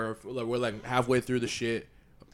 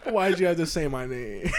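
higher, laughing protest; laughing mock complaint; 5 semitones higher, 3 dB louder than usual. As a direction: whine it in jest through laughter. Laughing through his own retold complaint.

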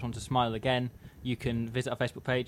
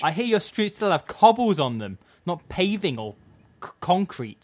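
lightly higher sneering voice; a hint of snob mockery; 6 semitones higher, 5 dB louder than usual. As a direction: join in the taunt.

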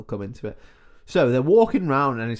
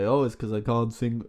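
put-on Transylvanian accent. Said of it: "I'm doing the Transylvanian voice".

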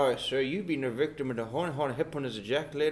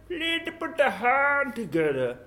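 announcer voice. Acted. Announcer introducing magician.

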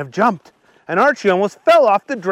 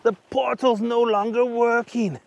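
high-pitched character voice; apologetic Archie; 6 semitones higher, 3 dB quieter than usual. A narrator's reading. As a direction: break the bad news, pitched high. Archie breaks bad news.

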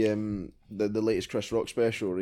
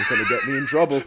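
higher, louder, laughing fearful plea; scared kid; 7 semitones higher, 9 dB louder, much faster than usual. Retold or imitated. Kid pleading with his friend not to cause trouble, mock fear. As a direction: squeak it out through laughter. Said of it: "And he's like".

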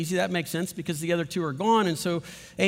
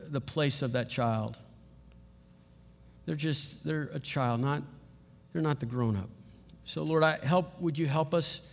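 closing prayer; 2 semitones lower than usual. Acted. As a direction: pray it gently over the congregation. Pastor prays after sermon.

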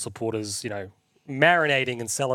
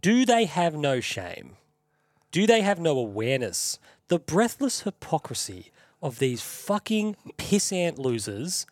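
indignant rant; 2 semitones higher, slower than usual. Real, not acted. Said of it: "I'm gonna do a quick rant".

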